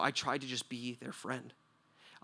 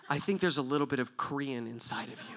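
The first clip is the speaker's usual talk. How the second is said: laughing. Retold or imitated. Retelling the guard's joke.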